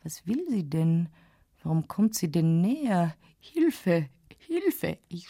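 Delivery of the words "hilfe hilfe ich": rising panicked call for help; frightened cry. A narrator's reading. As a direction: cry out in terror. Else ruft stumm um Hilfe. (panischer Hilferuf)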